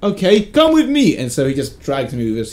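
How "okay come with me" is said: slow, high African accent impression; lightly voiced African accent; imitating African accent. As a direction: lead him off slowly in the bouncer's African accent. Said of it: "charming African accent".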